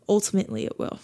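quiet falling restatement; soft echo. Real, not acted. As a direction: let it settle quietly. Quiet echo of own phrase.

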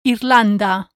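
Irlanda with a short Spanish i and a rolled r. Shown as a demonstration. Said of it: "Repeat after me".

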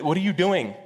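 high, urgent alarm; panicked servant. Acted. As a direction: plead in a rush of fear. Panicked servant confronts Elisha.

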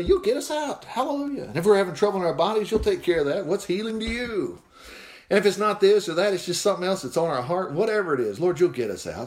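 prayer with quick lines and lifting hallelujahs; fervent prayer. Real, not acted. Preacher closing the sermon in prayer, fervent prayer voice. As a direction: pray it out warmly to the Lord.

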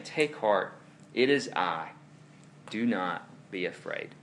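low, measured reassurance, softening at the end; comforting. Acted. Jesus to frightened disciples in the storm, comforting. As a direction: read it as calm words of comfort. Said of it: "Jesus immediately comforts the disciples".

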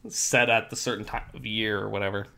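hoarse, worn-out voice; losing voice. Real, not acted. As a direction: voice giving out, a bit rough. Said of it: "I'm losing my voice right now".

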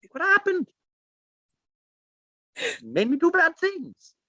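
high, fussy posh British whine of excuses; a prim British clown pleading innocence; posh British accent. Pretend. Actor voicing Art the Clown excusing himself in a posh British accent. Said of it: "posh, uppity accent".

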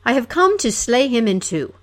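brash battle boast; heroic boast. Acted. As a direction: boast like a knight spoiling for a fight. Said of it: "the hero cried".

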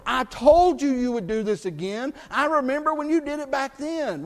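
a hint of an accusing, told-you-so voice; scolding God. Pastor voicing a God who does not act, mildly accusing. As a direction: lightly voice a God who throws past sins back. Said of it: "God doesn't go".

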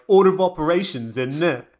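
put-on jokey South London accent, tag question up; mock South London accent. Cohost mocking a math-loving character, South London accent. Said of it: "South London accent".

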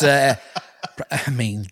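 George Bush. Acted. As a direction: chuckle and stumble through humble thanks. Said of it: "George Bush".

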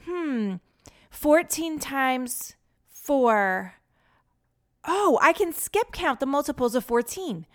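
drawn-out musing over a sum, then brightening; pondering boy doing mental math; thinking aloud. A narrator's reading. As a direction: work it out slowly, then catch the idea.

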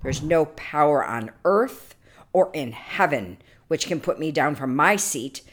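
indignant royal denial, loud at the start; angry king. Acted. Proud king dismisses the chanted verse as false, angrily. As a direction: push back with proud, contained anger. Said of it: "said the king angrily".

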